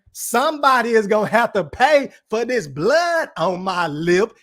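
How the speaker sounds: lightly voiced drill sergeant, barely off his own voice; a hint of a stern army major; Major Payne voice. Streamer quoting Major Payne to chat, lightly mock drill sergeant. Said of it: "in my fucking Major Payne voice".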